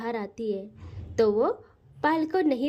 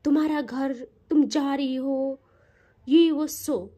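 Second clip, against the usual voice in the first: angrily; 2 semitones lower than usual. Acted. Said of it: "गुस्से से देखती है".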